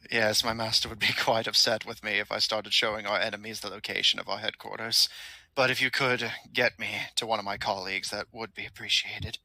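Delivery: lightly voiced loyal minion, matter-of-fact; a hint of a courteous servant of a villain; polite henchman. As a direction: play an injured underling, formal and composed. Game master voices loyal henchman.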